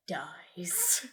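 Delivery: unvoiced whisper, a mock-dramatic reveal. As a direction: breathe the word out like a secret. Dramatic end of narration.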